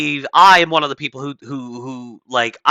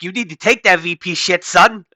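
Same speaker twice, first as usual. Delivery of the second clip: higher, louder hammed-up bro voice rising to the end; mock street bro; 6 semitones higher, 3 dB louder than usual. Host imitating Usha Vance urging husband, hammed-up bro voice. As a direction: bark it like a hype man egging on his buddy. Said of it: "Usha Vance is like".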